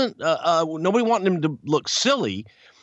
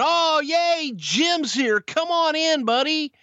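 much higher, sing-song fake greeting; mock warm welcome; 13 semitones higher, slower than usual. Voicing the welcome Jim never got, mock gushing higher voice. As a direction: gush over him like a too-friendly host.

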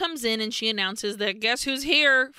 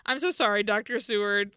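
laughing mock apology; 5 semitones higher than usual. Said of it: "turns around and is like".

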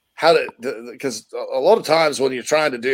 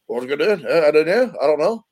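Scottish accent; 2 semitones higher than usual. Shown as a demonstration. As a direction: toss it off in a lilting Scottish brogue. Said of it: "sometimes goes up here like that".

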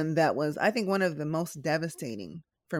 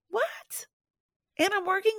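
can you believe it; incredulous; 14 semitones higher than usual. Real, not acted. Disbelief at her own workload.

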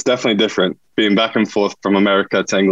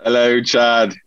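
light English-accented greeting; 2 semitones higher, much slower than usual. Shown as a demonstration. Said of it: "That English accent you just did".

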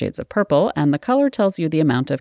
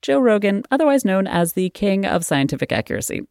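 mock praise, pitched higher; sarcastic fake admiration; 5 semitones higher than usual. Real, not acted. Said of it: "I'm being extraordinarily sarcastic".

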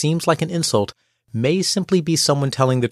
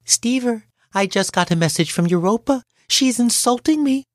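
upset coworker; 10 semitones higher than usual. Retold or imitated. Upset coworker complaining to narrator.

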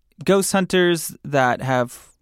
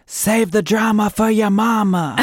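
ghostly voice; 6 semitones higher, 4 dB louder than usual. Pretend. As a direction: say it like a spooky voice. Quiz option voiced.

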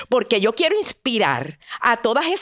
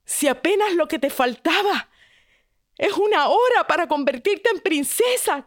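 bewildered father; 6 semitones higher than usual. Acted. Father voiced in the story.

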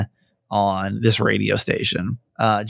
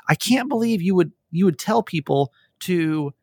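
mock outraged commenter; 6 semitones higher than usual. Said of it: "message right after that saying".

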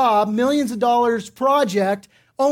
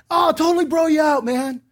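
mock-hearty promise, pitched up; eager contractor; 3 semitones higher than usual. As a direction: imitate an over-friendly guy offering a deal. Another eager contractor makes promises.

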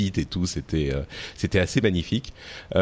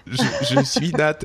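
mock shy Nat; 5 semitones higher than usual. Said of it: "la timide".

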